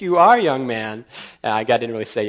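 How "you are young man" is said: stern parental attitude. Retold or imitated. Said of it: "that was the attitude".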